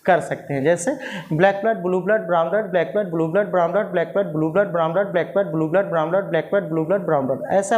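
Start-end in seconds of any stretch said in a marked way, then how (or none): 1.3-7.4 tongue twister run together; fast tongue twister drill; faster practice. Shown as a demonstration. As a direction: rattle it off without pauses. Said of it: "आप थोड़ा सा fast practice कर सकते हैं".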